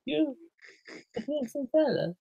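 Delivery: high, loud, over-the-top reassurance; mock hype man. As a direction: gush like an overexcited fan cheering him up. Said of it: "I was like".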